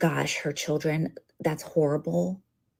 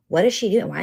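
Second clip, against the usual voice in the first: outraged; 3 semitones higher, 6 dB louder, faster than usual. Real, not acted. Outraged at widow's speech.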